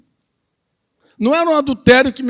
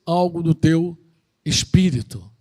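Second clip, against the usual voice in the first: gentle reply; 3 semitones lower than usual. Retold or imitated. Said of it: "eu digo assim".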